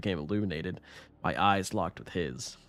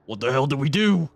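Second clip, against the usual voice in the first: fearful; 5 semitones higher, 6 dB louder than usual. Acted. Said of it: "his voice unsteady, yet filled with fear".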